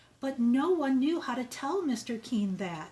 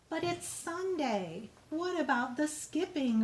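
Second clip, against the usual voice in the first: put-on a sad little boy asking; protesting little brother; 5 semitones higher than usual. Brother asking Tilly about skipping on Sunday, higher and plaintive. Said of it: "her brother called".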